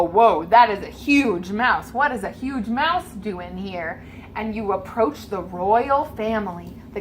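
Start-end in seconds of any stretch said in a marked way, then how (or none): 0.0-4.0 crowd. Acted. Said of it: "people move to the side and go".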